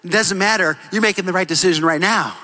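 a hint of a gentle father; lightly voiced calm father. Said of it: "the dad said".

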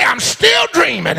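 a first holler of the line; called out. Shown as a demonstration. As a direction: call it across the church, not yet at full force. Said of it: "Holler across the church".

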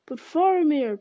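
high, loud desperate cry. A narrator's reading. Pippin crying out to Gandalf, desperate cry. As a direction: call out to stop him leaving. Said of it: "cried Pippin".

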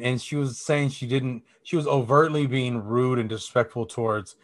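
normal talking voice

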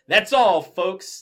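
high, loud cartoon sign-off; Porky Pig. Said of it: "Porky ... said".

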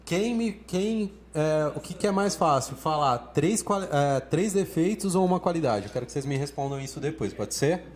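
loud call to the audience to join the poll; calling out to viewers. Real, not acted. Host rallying viewers in the comments, loud and eager. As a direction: project it out to everyone listening.

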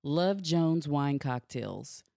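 slow, smooth sponsor read. Acted. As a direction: read it like a radio ad.

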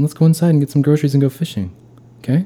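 high, fast coach pep talk. Retold or imitated. Brother as coach pitching groceries and fishing. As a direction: rattle it off like a hyped coach. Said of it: "the Little League baseball coach".

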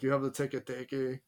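Teke Teke said with Spanish vowels and rolling rhythm; Hispanic accent. Real, not acted. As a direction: Teke Teke pronounced like a Spanish speaker. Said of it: "like, an, a Hispanic accent?".

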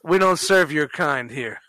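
slow cold refusal, mock bouncer; deadpan slow put-down, barring a patron; snooty waiter. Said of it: "just fucking with you".

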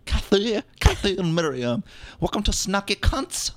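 high, put-on Asian accent, coy and vain; put-on Asian woman voice. Host introducing herself in put-on Asian accent. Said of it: "trying to apologize in my voice".

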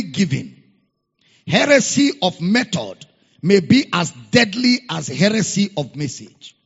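forceful, punched quotation from the pulpit; emphatic preaching. Real, not acted. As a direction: drive each phrase home to the congregation. Preacher repeats quote with force.

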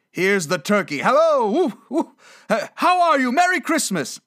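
high, loud, giddy whooping greeting; overjoyed. Acted. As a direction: whoop and call out in delight. Overjoyed Scrooge greets the turkey.

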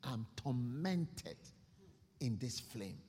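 slow, low, fading cry for mercy; slow anguished plea. Acted. Rich man begging Abraham for mercy, slow and anguished. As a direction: drag it out in torment. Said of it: "He said".

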